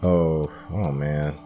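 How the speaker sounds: ordinary delivery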